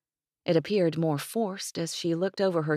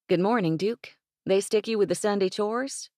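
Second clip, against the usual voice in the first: a hint of a teasing young woman, a bit higher; young ranch daughter, playful and bright-voiced; lightly voiced ranch girl; 5 semitones higher, 3 dB louder than usual. Ranch daughter teasing the hired hand, lightly higher voice. Danny greets Evan at chores.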